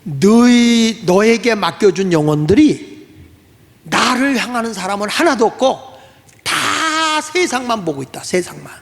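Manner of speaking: slow, grave rebuke from above; solemn divine reproach, slowed down; voice of Jesus. Retold or imitated. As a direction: speak slowly like God rebuking. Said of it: "그랬더니".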